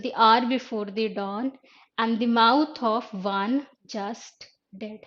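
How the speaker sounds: very slow, drawn-out rereading; lingering poetic reading; slow recital. Shown as a demonstration. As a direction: stretch every word of the line. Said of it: "rereads lines slowly".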